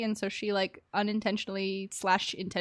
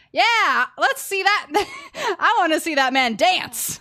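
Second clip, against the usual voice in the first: high, loud giddy laugh through the words; bursting with glee at the idea; excited laughing; 6 semitones higher, 7 dB louder than usual. Real, not acted. Streamer giggling excitedly at the thought of a dance. Eager to see character dance.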